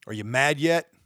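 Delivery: angry rhetorical challenge to viewers; loud challenge. Real, not acted. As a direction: throw the question hard at them. Repeated challenge, loud take.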